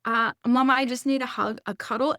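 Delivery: a hint of a child's voice; imitating small son. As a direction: plead gently like a kid to his mama. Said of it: "for him, he says".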